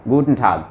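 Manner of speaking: गुटन ठाग ending cleanly in g, left short; clipped final g. Shown as a demonstration. Teacher shows ending on plain g. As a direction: stop गुटन ठाग right on the g. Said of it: "गे ही बोल के छोड़ रहा हूँ".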